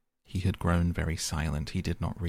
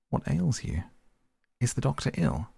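much higher, startled questions; jolted by Poole's face, cry out; alarmed cry; 6 semitones higher than usual. A narrator's reading. Utterson cries out in alarm at Poole, higher. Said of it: "he cried".

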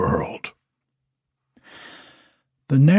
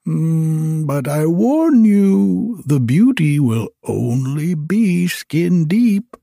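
higher, slow solemn warning; warning wizard; 5 semitones higher, slower than usual. Acted. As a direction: caution him gravely. Wizard warns the glass blower.

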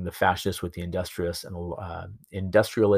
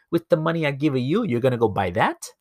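high-pitched, incredulous dad for a punchline; acted old man's indignant question; scolding old father; 7 semitones higher than usual. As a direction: scold your son in mock disbelief. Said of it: "the old man walks over to his son".

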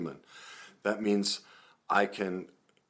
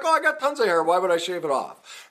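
mock self-assurance; 10 semitones higher, 6 dB louder than usual. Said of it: "I look in the mirror, I'm like".

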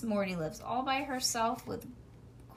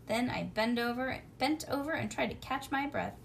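ordinary delivery, nothing marked

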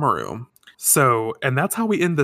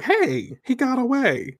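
shrill-high squeak of surprise, much higher; high girlish voice; 12 semitones higher, slower than usual. Retold or imitated. Sailor scouts crying out as Zoisite escapes, high and indignant. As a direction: pitch way up like an indignant schoolgirl.

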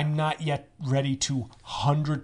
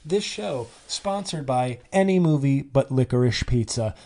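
mock sponsor announcement; 3 dB louder than usual.

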